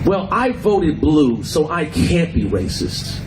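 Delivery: slow, drawn-out sarcastic liberal voice; slow mock of smug white liberals. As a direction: mimic a self-satisfied voter. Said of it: "and say that".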